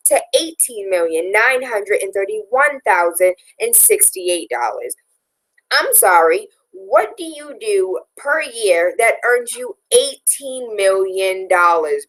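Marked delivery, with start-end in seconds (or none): 5.7-12.1 slow, drawn-out disbelief; indignant, slowed right down for emphasis; incredulous. Real, not acted. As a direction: stretch out the question in disbelief. Indignant rhetorical question about huge salary.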